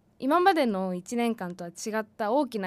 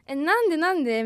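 higher, louder baffled protest; mock dismay; 5 semitones higher, 5 dB louder than usual. Commuter finding the train delayed despite leaving early, mock dismay. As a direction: act out exasperated disbelief.

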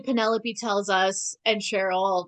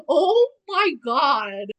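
mock shock; 4 semitones higher, 4 dB louder, much slower than usual. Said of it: "I was like".

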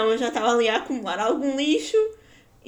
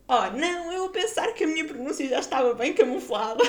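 mock dismay; 5 semitones higher, 3 dB louder than usual. Mock dismay at being found out.

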